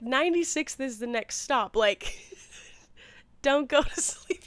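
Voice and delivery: a mock-blunt warning she only wished she'd said; imagined blunt comeback; blunt pretend reply. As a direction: tell him straight, half joking. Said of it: "You know, I didn't say that".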